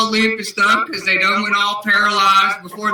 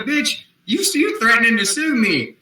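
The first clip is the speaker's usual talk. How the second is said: retold yell; 5 semitones higher than usual. Retold standoff with the principal.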